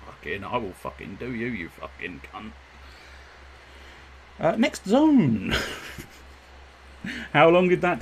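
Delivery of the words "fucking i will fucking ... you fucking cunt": swearing tirade. Real, not acted. Muttering at the moth.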